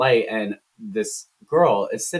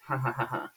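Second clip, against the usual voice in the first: soft, spelled-out fake laugh; half-hearted "ha ha" in imitation; mock laugh; 2 semitones higher, 8 dB quieter than usual. Gemma agreeing to her boss, soft fake laugh.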